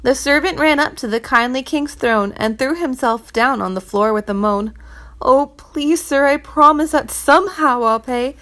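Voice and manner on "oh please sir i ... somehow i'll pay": higher, louder desperate begging; pleading. Acted. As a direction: beg for your life. Servant begging the king.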